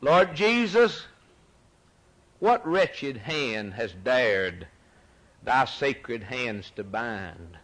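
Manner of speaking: slow, earnest reciting of a hymn; hymn recitation. Acted. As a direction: read the verse like a plea for mercy.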